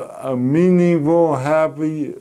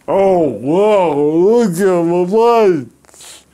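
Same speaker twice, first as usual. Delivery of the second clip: slow, overdone copy of Norman's own voice, slightly louder; mocking imitation of my speech; 3 dB louder, slower than usual. Friend at the pub mimics how Norman talks, slow and exaggerated. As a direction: ham up a friend mimicking the way you talk. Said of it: "he imitates the way I talk".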